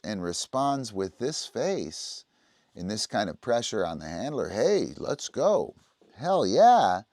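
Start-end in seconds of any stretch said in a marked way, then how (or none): 4.5-7.0 high, loud pep talk to the dog; hammed-up coach cheering her dog on; hyped cheer. Shown as a demonstration. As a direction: fire the dog up. Pumping up low drive dog.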